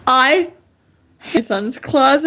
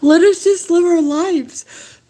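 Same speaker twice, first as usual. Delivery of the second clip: tearful plea; 4 semitones higher than usual. Real, not acted. Pleading with authorities, voice crying.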